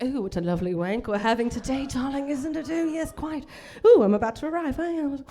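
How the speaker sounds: mock posh British accent; hot posh accent. Comic doing a posh British accent, mock sultry. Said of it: "a really hot accent".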